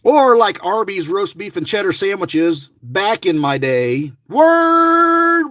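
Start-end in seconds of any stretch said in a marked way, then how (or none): 4.3-5.5 "Word!" shouted high and loud; sudden high, loud cry of triumph; loud, high shout on spotting a winning word; excited shout. Real, not acted.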